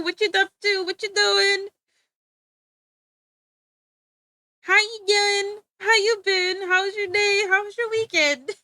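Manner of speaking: high, loud sing-song hellos; sing-song greetings. Pretend. Streamer showers chat with high sing-song greetings. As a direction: greet chat like an overeager host. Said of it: "I said it like that".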